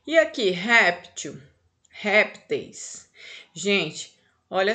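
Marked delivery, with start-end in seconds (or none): 0.5-3.1 "réptil, répteis" with a strong first syllable, rep; stress on first syllable. Shown as a demonstration. Teacher showing the strong syllable, stressing rep in "réptil, répteis". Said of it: "A sílaba forte é rep".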